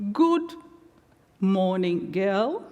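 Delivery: lightly voiced cheerful old man, rising start; a kind elder's bright hello; cheery greeting. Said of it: "said cheerily".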